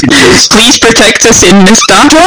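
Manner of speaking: mock prayer. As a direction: recite a pious prayer mid-battle. Character starts praying aloud in battle.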